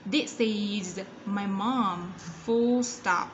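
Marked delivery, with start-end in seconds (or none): 0.1-2.1 "This is my mom" very slowly, "This" linked into "is"; drawn-out teacher demo of "This is my mom"; linked sounds. Shown as a demonstration. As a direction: model "This is my mom" with a z ending on "is". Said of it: "đồng thời nối âm sang bên này".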